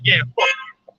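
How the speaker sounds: high, sassy dismissive comeback; mock defiant retort. Woman mocking the Israelites, high sassy defiant retort. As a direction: toss it off like a smug brush-off.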